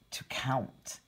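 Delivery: soft whispered aside; whispering. Real, not acted. Whispered aside while reading.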